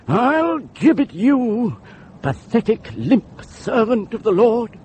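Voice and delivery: high, heated denunciation; scornful threat. Acted. Campaigner threatens the reluctant vicar with his gibbet, scornful outburst. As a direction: pitch it up and denounce him with contempt.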